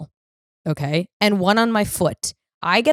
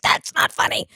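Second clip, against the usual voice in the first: whispered, unimpressed mother; a flat mock-stern whisper from mom. Mom scolding daughter's joke, whispered mock disapproval.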